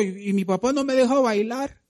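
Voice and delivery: put-on a young son pleading that dad forbids dancing; mock child whine; whiny kid voice. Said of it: "dice el patojo".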